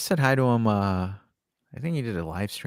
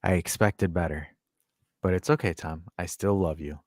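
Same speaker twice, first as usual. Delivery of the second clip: disappointed father; 3 semitones lower than usual. Retold or imitated. Streamer forgives Tom over his captain choice, disappointed. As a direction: sigh it out with long forgiving pauses. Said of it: "he's like this. He's like".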